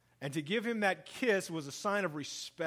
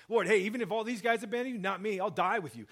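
eager boast; 4 semitones higher, 3 dB louder, faster than usual. Retold or imitated. Peter's bold promise.

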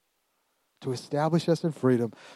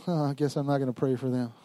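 soft, resigned giving up; mildly deflated; 7 dB quieter than usual. Acted. Believer giving up on praying, mildly deflated. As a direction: let it drop quietly in mock defeat.

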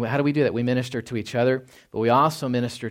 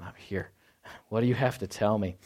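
gentle reassuring father; 2 semitones lower, 4 dB quieter than usual. Retold or imitated. Voicing God as perfect father.

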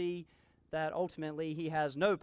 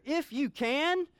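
exclaiming; 7 semitones higher, slower than usual. Acted. Preacher voices Jesus answering the doubting father, exclaiming. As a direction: make it ring with disbelief. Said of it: "do you see the exclamation point?".

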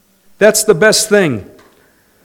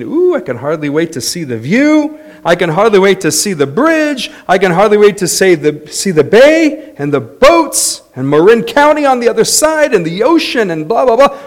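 building, louder excited gushing; mock eager tourist; 3 semitones higher, 3 dB louder than usual. Pastor mimics eager riders on the cable car, gushing and building. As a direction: gush about the view, rising in pitch. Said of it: "I wasn't thinking".

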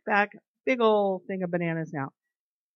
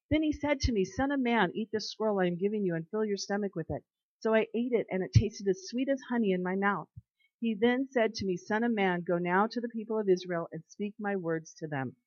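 calm, measured Bible reading; scripture reading. Acted. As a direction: read the passage reverently. Reads Ezekiel passage aloud.

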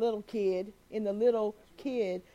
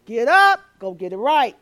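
shouted command; 11 dB louder than usual. Acted. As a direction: bark it out like a preacher at full force. Altar's command, preacher shouting it.

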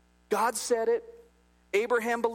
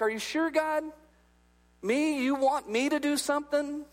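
higher-pitched, hesitant mock questioning; incredulous doubt; 5 semitones higher than usual. New believer answering God's call, incredulous. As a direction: question the request in lightly acted disbelief. Retold doubting reply to God.

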